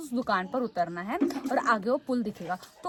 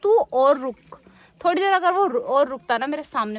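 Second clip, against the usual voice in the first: much louder, higher outburst of rage; furious threat; 4 semitones higher, 9 dB louder than usual. Retold or imitated. Threatening the conductor who ran off, furious and loud. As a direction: let the anger burst out as a threat. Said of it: "मेरे को तो इतना गुस्सा आया".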